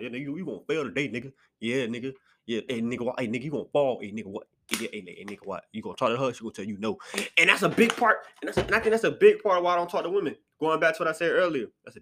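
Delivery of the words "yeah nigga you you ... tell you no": taunting inner voice. Acted. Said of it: "I'm like".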